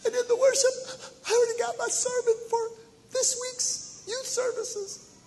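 high tearful girl imitation; daughter crying. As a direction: weep it like a moved teenage daughter. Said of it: "She said".

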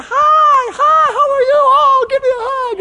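high, loud gushing hello voice; squealing welcome at the church door; gushing greeter. Retold or imitated. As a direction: play the over-the-top happy greeter. Pastor mimics cheery greeters.

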